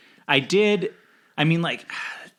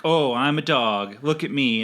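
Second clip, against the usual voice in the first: lightly hammed-up taunt; mock the dog in a showy imitation; mocking cow. Cow showing off to mock the dog, retold teasingly. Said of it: "it mocks him".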